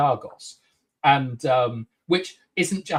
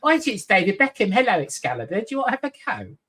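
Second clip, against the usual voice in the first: Harry Enfield type; 6 semitones higher, faster than usual. Retold or imitated. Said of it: "more like a sort of Harry Enfield character".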